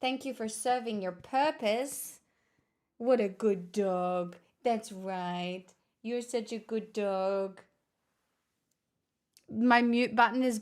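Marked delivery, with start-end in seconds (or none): 3.0-7.6 dog praise. Real, not acted.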